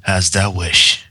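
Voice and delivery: slow, grave royal voice; Luna conceding. Acted. Luna giving in to her sister, slow and formal. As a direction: yield with stiff dignity.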